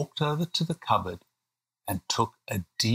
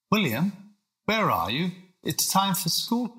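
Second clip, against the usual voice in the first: dad calling; 8 semitones higher than usual. Acted. Dad calls his son for school.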